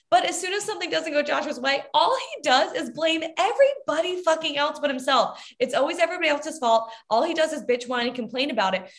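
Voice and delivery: ordinary delivery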